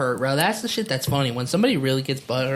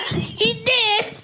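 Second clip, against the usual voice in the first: mock panic. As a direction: play the customer shrieking into the phone. Voicing panicked customer calling cops.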